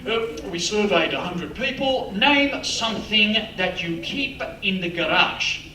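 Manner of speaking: slow, lightly voiced game-show host; slow, measured host read; Bert Newton impression. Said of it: "standing there going".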